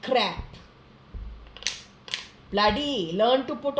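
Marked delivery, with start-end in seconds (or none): 0.0-0.4 slow, loud, spitting out "sewer garbage"; slow angry insult. Real, not acted. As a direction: hurl each insult, slowly. Insulting the man angrily.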